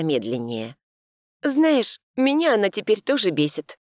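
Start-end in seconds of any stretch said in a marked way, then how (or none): 1.4-3.8 confiding. A narrator's reading. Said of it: "призналась я девочке".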